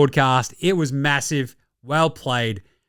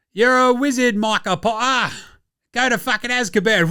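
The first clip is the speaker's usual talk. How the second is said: mock dunk call; 5 semitones higher than usual. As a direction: announce it like a wizard's sentence. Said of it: "says Matty T".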